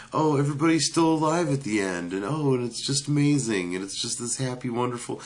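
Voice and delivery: sarcastic happy-ending rapture; mock gushing. Reviewer mocking the film's tidy happy ending, gushing sarcastically.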